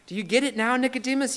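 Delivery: mildly exasperated Jesus. Retold or imitated. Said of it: "he says".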